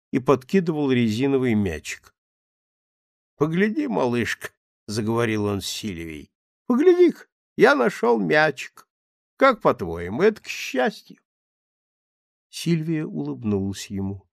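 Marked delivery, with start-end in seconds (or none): 3.4-4.5 put-on playful drunk. Drunk man calls to Sylvia. 6.7-11.2 put-on playful drunk. Drunk man shows his ball.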